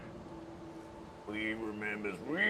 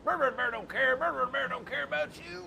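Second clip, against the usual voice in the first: sing-song mocking villain voice; mock the captive from above; taunting villain; 3 semitones higher, faster than usual. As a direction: captor taunting his prisoner.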